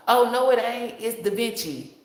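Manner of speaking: a hint of a snooty know-it-all; mocking commenter voice. Mocking a commenter who corrects her, snooty voice.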